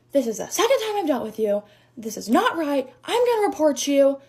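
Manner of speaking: retold telling-off with rising force; imitated yelling customer. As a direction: act out an irate customer's threat. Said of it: "her yelling at me".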